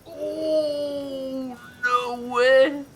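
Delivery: high, loud gasp of disbelief; shocked disbelief. Real, not acted. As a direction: react like it can't be real. Disbelief at a game moment.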